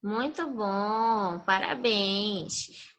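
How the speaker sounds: drawn-out, soft, slow praise; slow warm praise. Real, not acted. Teacher praising a pupil's healthy-plate drawing, slow and warm.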